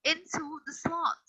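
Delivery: slowly spelling out into the slot; drawn out for the student; slow emphasis. Shown as a demonstration. Teacher slowing down for a student, into the slot drawn out. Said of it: "except for what I have typed".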